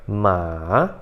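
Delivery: "ma" with a little descent before rising; long, low "ma" climbing back at the end; third tone, dipping. Shown as a demonstration. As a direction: dip "ma" down, then up. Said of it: "ele tem essa descidinha".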